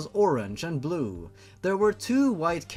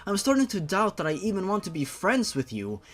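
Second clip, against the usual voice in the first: put-on higher, indignant young woman snapping back; annoyed Shayla; 6 semitones higher than usual. Shayla scolding Jeff for calling her sweet cheeks, higher and indignant. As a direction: push him away with a raised, fed-up voice.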